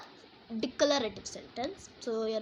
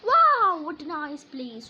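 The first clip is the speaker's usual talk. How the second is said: amazed wow; 2 semitones higher, 11 dB louder, slower than usual. Shown as a demonstration. Reading an exclamatory example.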